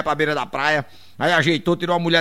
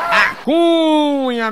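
long stretched high call of the name; drawn-out call; 9 semitones higher, 4 dB louder, much slower than usual. Acted. Comedian opening a joke, stretched and high.

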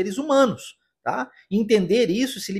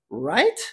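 "Right?" rising like a question; "Right?" as a short confirming question, pitch sweeping up; questioning tag intonation; 3 semitones lower than usual. Shown as a demonstration. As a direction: lift the end of "Right?" to seek confirmation. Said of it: "com essa entonação de pergunta".

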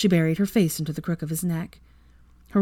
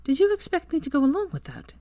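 higher, serious challenge; serious Hermione; 11 semitones higher than usual. A narrator's reading. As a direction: press her with a serious, higher question. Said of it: "she asked seriously".

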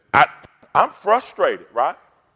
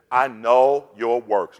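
slow, weighty, each word set down; slow scripture reading; 6 semitones lower, much slower than usual. Shown as a demonstration. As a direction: read it slowly so every word lands. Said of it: "Let's go through 'em".

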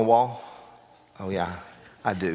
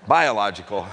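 chuckling as he fixes the word; laughing correction; 4 semitones lower than usual. Real, not acted. Pastor correcting himself with a laugh, chuckling. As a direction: laugh it off while saying biological. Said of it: "I don't know".

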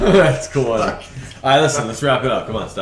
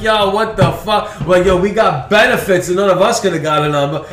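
retold disbelief; 6 semitones higher, 3 dB louder than usual. Retelling the group's amazed reaction.

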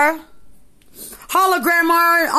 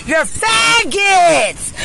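angry shout; 4 semitones higher, 3 dB louder, much slower than usual. Real, not acted. Ranting at corrections staff.

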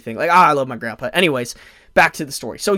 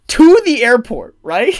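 chuckling as the words come out; half laughing at his own blunder; laughing through it; 8 semitones higher, 8 dB louder, slower than usual. Real, not acted. Telling viewers about the knife, laughing.

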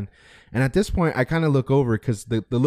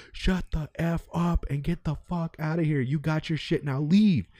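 mock angry outburst, higher pitched; retold snap; 5 semitones higher, 4 dB quieter, slower than usual. Customer turns on the arguing woman, retold snapping. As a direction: imitate a man losing patience, slowly spaced words. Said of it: "the guy snaps".

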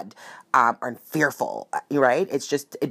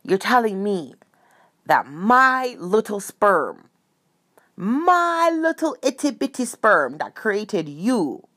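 imitating dad; 5 semitones higher, slower than usual. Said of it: "My father goes".

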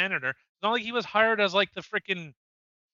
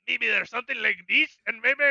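put-on tentative, searching Scottish accent; attempted Scottish accent; 3 semitones higher than usual. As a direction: try out a shaky Scottish accent. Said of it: "Scottish accent".

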